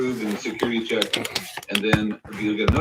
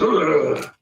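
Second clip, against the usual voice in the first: horse grunt; 5 semitones higher, 4 dB louder than usual. Retold or imitated. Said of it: "And the horse goes".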